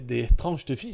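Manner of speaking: accidental touch of German accent. Real, not acted. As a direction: slip briefly into a German accent. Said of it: "j'ai eu un accent allemand".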